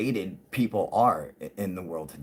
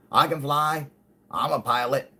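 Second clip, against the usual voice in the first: put-on drunk Russ; 5 semitones higher than usual. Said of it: "And he's all drunk and shit".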